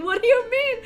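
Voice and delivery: high, loud, laughing retort. Retold or imitated. Retold surprised reply, laughing.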